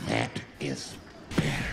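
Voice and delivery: low, hushed menacing whisper. Retold or imitated. Homeless man quietly approving the silence, hushed menace.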